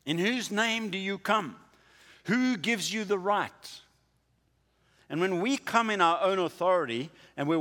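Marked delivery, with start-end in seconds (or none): 0.0-3.8 challenging accuser. Retold or imitated. Voicing the challenging religious leaders.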